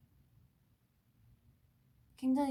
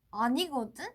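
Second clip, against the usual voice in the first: louder mock-indignant denial; playful retort; 6 dB louder than usual. Idol trying the line for fans, mock retort. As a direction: punch it out like a pouty comeback. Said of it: "어떻게, 어떻게 하더라?".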